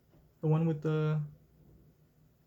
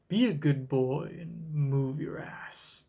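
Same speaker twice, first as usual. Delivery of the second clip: breathy whispered command, no voice; slower than usual. Acted. Whip woman ordering the building, whispered. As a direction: hiss the order under the breath.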